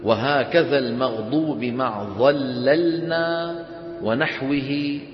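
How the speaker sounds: slow, measured chant of a didactic poem; verse recitation. Acted. Teacher reads the poem to students, slow chanted recitation. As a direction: recite the verse slowly, drawing out the endings.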